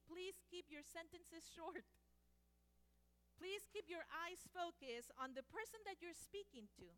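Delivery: lightly voiced formal script, measured and polite; formal interpreter greeting. Shown as a demonstration. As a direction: recite the greeting like a trained professional. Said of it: "So I would say something like this".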